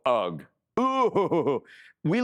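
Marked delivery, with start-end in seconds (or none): 0.1-0.4 disgusted groan. Retold or imitated. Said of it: "they look at us and they go".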